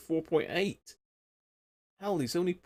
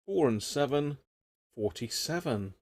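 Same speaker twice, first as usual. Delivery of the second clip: bingo caller; 2 semitones higher than usual. Retold or imitated. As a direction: call it like a bingo hall caller. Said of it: "bit of bingo calling once".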